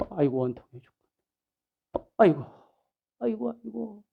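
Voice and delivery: a hint of a mother's keening; grieving wail. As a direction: moan in bitter grief. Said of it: "하고 울었을까요".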